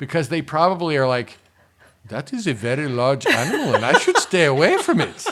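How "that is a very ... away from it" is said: put-on vague made-up accent from no country, sing-song. Imagining how these people think, in an unidentifiable put-on accent. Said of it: "I don't know what accent that I just did".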